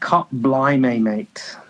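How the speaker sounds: put-on slow, lightly done English accent; Roy Kent English accent. To the UK people on the live, slow mild English accent. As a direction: drawl out a mild mock English accent, slowly. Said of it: "Sounds like Roy Kent".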